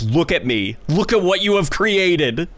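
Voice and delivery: a lightly voiced looming villain, rising at the end; Michael Rooker looming. Friend mocking the new game as Michael Rooker, lightly looming. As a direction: tower over them and gloat, half-voiced. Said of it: "looming over us and says".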